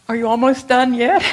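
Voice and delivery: teacher nagging the nurses, loud and teasing; impatient question. Retold or imitated. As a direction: call out teasingly, "done yet?". Dying teacher asking again.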